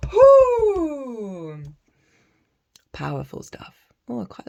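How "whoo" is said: high loud whoo of release; exhilarated whoop. Real, not acted. Reader whooping after intense channeling, exhilarated. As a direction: let out a joyful whoop.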